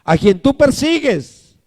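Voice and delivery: high, measured declaration; Jesus answering from heaven. Acted. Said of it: "Y le dijo".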